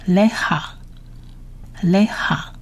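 לך read out as a separate word, "le-ha"; 逐词念读. Shown as a demonstration. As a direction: model לך on its own for learners. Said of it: "我们逐一来念一次他的单字". (单独示范 לך 的读音)

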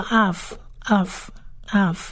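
av said slowly as "ahv", spaced out; slow, separated repeats of av; pronunciation demo. Shown as a demonstration. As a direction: model "av" for learners, pausing between repeats. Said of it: "通常叫".

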